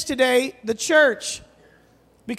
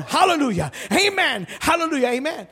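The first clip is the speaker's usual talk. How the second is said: higher chanting hallelujah amen; imitating a preacher; 4 semitones higher than usual. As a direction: keep the preacher going. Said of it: "he's still going".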